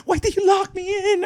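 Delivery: high, shouted accusation; mock shout. Retelling girlfriend yelling at boyfriend, high mock shout. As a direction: yell it like the trapped girlfriend.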